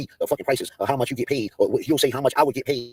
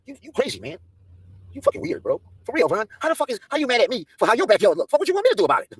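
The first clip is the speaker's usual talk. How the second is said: higher, whiny plea of innocence; mock innocent whine; 8 semitones higher than usual. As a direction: play the wrongly accused. Mocking Von.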